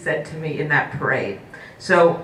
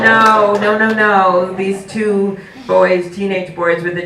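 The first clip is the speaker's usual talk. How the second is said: emphatic no; 4 semitones higher, 5 dB louder, slower than usual. Retold or imitated. Mother retells firm refusal.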